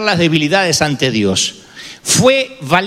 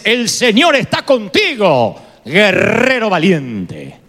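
slow, solemn blessing; solemn greeting; much slower than usual. Retold or imitated. Preacher slowly voicing God's greeting to Gedeón. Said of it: "el saludo de Dios es".

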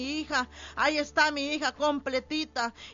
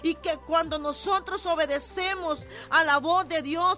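raised, urgent preacher's exhortation; rising pulpit appeal; fervent preaching. Acted. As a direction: press the congregation to pray now. Preacher exhorts congregation to pray.

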